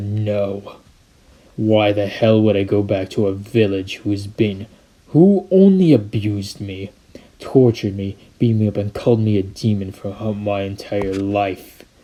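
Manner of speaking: deep, dark, menacing, threatening voice. Narrator reads a character's reply to the bodyguards: deep menacing voice. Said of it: "Naruto went into a more darker voice, deeper, more menacing".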